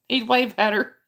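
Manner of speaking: laughing whisper; breathless giggly telling; words through a giggle. Real, not acted. Laughing while retelling dad story.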